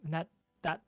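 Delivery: high, loud, rattled fairy; worried ice fairy. Acted. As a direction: fret over a friend in a high voice.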